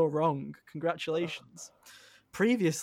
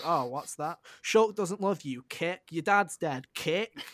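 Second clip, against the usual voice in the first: mocking game voice; slower than usual. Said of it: "That's what the game is".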